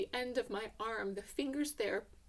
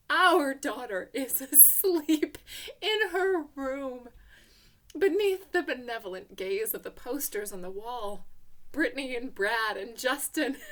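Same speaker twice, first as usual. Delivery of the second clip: elated; 7 dB louder than usual. A narrator's reading. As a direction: savor each word in relief. Relief, picturing daughter safe.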